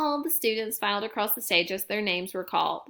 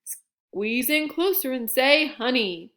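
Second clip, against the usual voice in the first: slow, louder grandpa photographer; Gramps' voice; 4 dB louder, slower than usual. A narrator's reading. Grandpa posing the cubs for a picture, slow and louder. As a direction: coax them slowly into the photo. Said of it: "he said".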